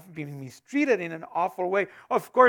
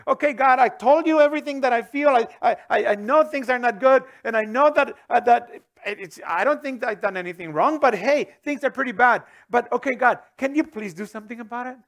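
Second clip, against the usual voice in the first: pleading prayer; 2 semitones higher, 4 dB louder than usual. Retold or imitated. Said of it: "There's a".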